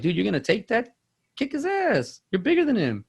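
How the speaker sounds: high-pitched incredulous urging, acted; retold egging on. Older cousin urging on a bullied kid, acted indignation. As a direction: goad him on, voice jumping up. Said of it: "And I was like".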